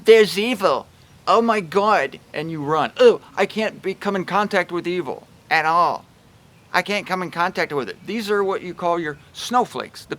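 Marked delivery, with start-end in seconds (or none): 0.0-8.1 mock panic. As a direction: panicky louder cry, hammed up. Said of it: "It's like".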